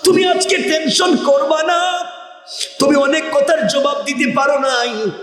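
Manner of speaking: high, ringing sustained call; bird crying out. Acted. Bird calling to Allah's servant in the grave, crying out. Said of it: "পাখি চিৎকার করে বলছে".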